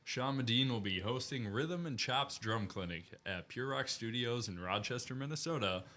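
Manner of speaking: booming event announcer hyping a show. Pretend. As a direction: sell it like a fighting game announcer. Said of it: "switch to your announcer voice".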